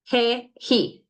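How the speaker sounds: "He, he" with a breathy English h; Spanish ge as he. Shown as a demonstration. Teacher showing students the Spanish g sound, breathy h. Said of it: "which is the H sound in English".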